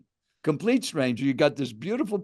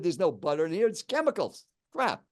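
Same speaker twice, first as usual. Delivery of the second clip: aggressive; 2 semitones higher, 3 dB quieter than usual. Retold or imitated. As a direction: imitate a stranger condemning the food. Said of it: "kind of an aggressive tone".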